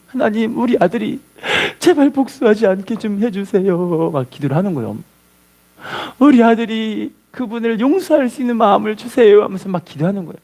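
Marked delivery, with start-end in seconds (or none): 0.1-4.1 acted pleading prayer, stretched out at the end; tearful prayer. Mother praying at son's door, mildly tearful. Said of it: "막 울면서 기도를 하는". 6.2-9.4 mildly acted pleading prayer; tearful prayer. Mother praying for son to forgive, mildly tearful. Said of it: "막 울면서".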